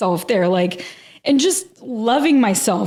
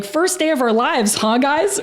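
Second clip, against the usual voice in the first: higher, laughing joke; joking with a laugh; 4 semitones higher than usual. Retold or imitated. Joking to the group after rebirth, laughing. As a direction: crack the joke as the laugh breaks through. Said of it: "I cracked a joke".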